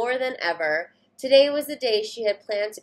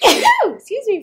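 a loud, slow, much higher call for attention; 13 semitones higher, 12 dB louder, slower than usual. Acted. Reader calling the listening kids to attention, loud and drawn out.

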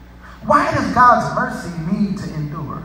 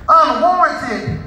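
raised, ringing preacher's praise; exultant preaching; 4 semitones higher, 3 dB louder than usual. Real, not acted. Preacher praising God for each day's new mercy, exultant preaching. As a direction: cry hallelujah, then punch out each word.

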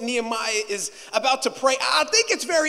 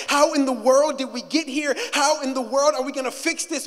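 louder, pressing "How in the world did we get here?"; urgent cry; 2 semitones higher, 4 dB louder than usual. Acted. Preacher voicing the cry again, building.

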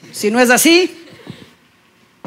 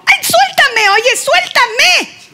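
offended squeal; 11 semitones higher, much slower than usual. Acted. Offended girlfriend pulls away.

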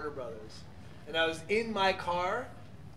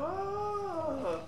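voice break; 13 semitones higher than usual. Shown as a demonstration. Teaching the audience how to do Shaggy's voice. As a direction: slide from bass up into falsetto. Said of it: "you go up to the falsetto".

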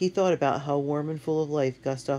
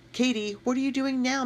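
exasperated; 11 semitones higher than usual. A narrator's reading. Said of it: "Matt asked".

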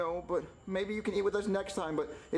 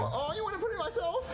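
suggestive; 9 semitones higher than usual. Acted. Junior keeps the running joke.

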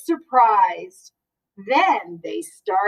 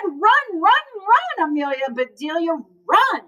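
cheering; 4 semitones higher than usual. Acted. Cheering the children to run.

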